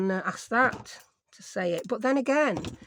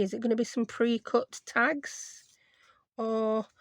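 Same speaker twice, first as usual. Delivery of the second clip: whisper. Real, not acted. Musing aloud while crafting.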